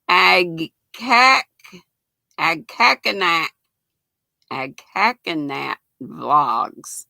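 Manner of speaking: Agcacanat taken apart slowly, piece by piece; tentative, broken-up attempts at Agcacanat; sounding out a name. Real, not acted. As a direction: feel your way through the unfamiliar name Agcacanat, with pauses. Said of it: "see if I can take that one apart".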